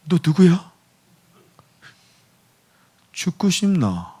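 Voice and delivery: high, menacing tough-guy challenge; mock threat. Believer to cult intruder, high menacing threat. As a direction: sneer it like a gangster.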